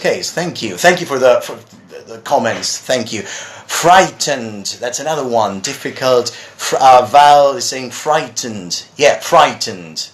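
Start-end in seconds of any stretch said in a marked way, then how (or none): 3.2-4.8 "Frightened" said slowly and clearly; pronunciation demo. Shown as a demonstration. Teacher answering a viewer's word request, careful model pronunciation. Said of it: "that's the way I would say it". 9.2-10.1 "frightened" drawn out slowly and clearly; pronunciation demo. Shown as a demonstration. Teacher confirming how he would say it, careful model pronunciation. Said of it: "that's the way I would say it".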